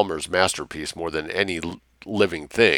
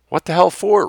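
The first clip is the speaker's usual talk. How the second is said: high, loud outburst; incredulous shout; crying out; 12 semitones higher, 6 dB louder than usual. A narrator's reading. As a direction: fling the question out in disbelief. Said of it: "Wrench cried".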